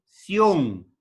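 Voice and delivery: "sion" as one unbroken syllable; vowels run together. Shown as a demonstration. Teacher showing joined vowels, "sion" in one syllable. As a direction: glide i into o in "sion". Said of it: "se pronuncian juntas".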